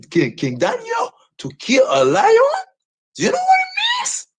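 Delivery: high, cracking shouts of rage; raging yell about his own name; furious shout. Real, not acted. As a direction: scream the question at the chat. Furious rant about viewers and lions.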